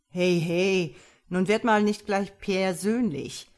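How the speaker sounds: loud mock-hurt protest; put-on indignation; acting offended. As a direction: protest loudly, as if insulted. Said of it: "tat beleidigt".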